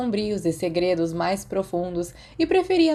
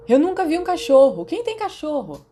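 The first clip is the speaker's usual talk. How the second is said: 1 curious student voice; 9 semitones higher, 5 dB louder than usual. A narrator's reading. Students gossiping about a dog.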